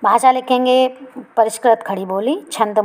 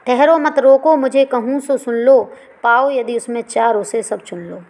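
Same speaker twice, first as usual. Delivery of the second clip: poem recitation. Acted. Teacher reciting Kaikeyi's plea to the class, raised at first. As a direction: call out the verse, then settle. Recites verse before explaining.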